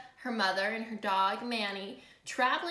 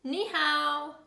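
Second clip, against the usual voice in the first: higher, louder hello; called greeting; 5 semitones higher, 5 dB louder than usual. Acted. A neighbour greets the passers-by, lifted and louder. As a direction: call the hello out brightly.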